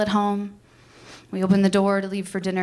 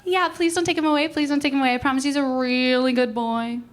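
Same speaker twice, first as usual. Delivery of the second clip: put-on higher, a touch of childlike begging; pleading; 5 semitones higher than usual. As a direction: plead sweetly for the dog. Pleading to keep the dog.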